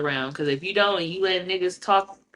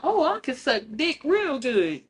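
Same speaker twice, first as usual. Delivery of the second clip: much higher, airheaded mock brag; put-on ditzy voice; mocking a blurting girl; 8 semitones higher than usual. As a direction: parody the girl who overshares. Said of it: "just blurting out".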